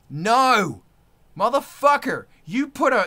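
furious cursing; angry shout. Real, not acted. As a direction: spit out the curse in fury. Rant peak.

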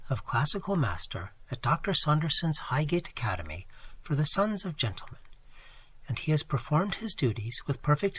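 softly voiced young lady, a hint of sorrow; distressed young lady. Young lady answers Phillips's offer of tea, softly. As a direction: speak gently, pleading for sympathy. Lady tells her story.

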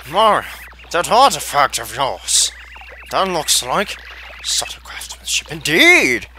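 a hint of a plummy adventurer hamming it up; Nigel Thornberry impression. Voicing the explorer Colorado to Mario, mild Nigel Thornberry accent. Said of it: "that's my best Nigel Thornberry impression".

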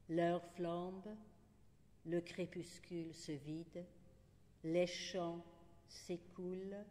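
unhurried recital in short, separated phrases; poetry reading. Acted. Poet reads the last poem of Chrysalide, unhurried recital. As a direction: let each line hang before the next.

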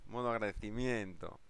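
ordinary talk

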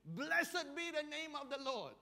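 solemn praise, declared aloud; Job praising God. Retold or imitated. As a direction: ring it out like a faithful proclamation. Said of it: "he says".

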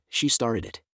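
put-on whining like a sulky kid; pouty little-kid whine; whiny childish voice. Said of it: "imitating my whiny childish voice".

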